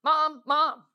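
rapid-fire mock child calling for mom; insistent kid impression, over and over; pestering kids. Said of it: "your kids have a voice and say".

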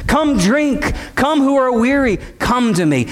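shepherd's call. Acted. Preacher voicing the shepherd to the congregation, ringing call. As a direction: call the flock, then soften on the last words. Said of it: "Do you hear him as a shepherd?".

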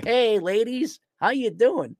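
high playful flirting; smooth pickup voice. Pretend. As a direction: play the smooth charmer.

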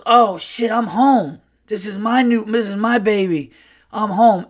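high, loud brash uncle, realizing; Earl. Retold or imitated. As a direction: imitate a brash guy's sudden dawning realization. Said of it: "like, a very brash uncle".

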